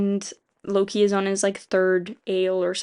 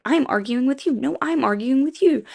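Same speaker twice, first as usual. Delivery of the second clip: mock bickering voices, pitched up and louder; squabbling bug people; 6 semitones higher, 3 dB louder than usual. Bug people bicker at each other, pitched up and louder. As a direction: trade it back and forth like petty bugs.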